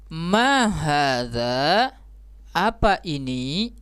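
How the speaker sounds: MA HADZA drawn out slowly, rising on "hadza"; question intonation. Shown as a demonstration. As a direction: read "Ma hadza, apa ini" as a slow, real question. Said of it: "intonasinya juga kita harus sesuaikan". (intonasi bertanya, pelan dan naik di akhir)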